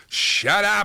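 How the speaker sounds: comic "enough already" outburst; exasperated outburst. Acted. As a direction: cut it off, fed up. Mock exasperation at endless emails.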